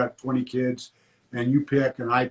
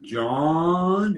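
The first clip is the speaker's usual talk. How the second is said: drawn-out John; 3 semitones higher than usual. Retold or imitated. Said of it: "Mister Rooney talked like this".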